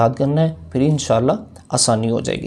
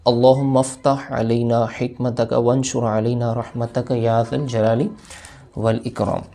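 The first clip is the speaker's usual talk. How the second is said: dua recitation. Shown as a demonstration. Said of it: "आइए हम भी पढ़ लेते हैं".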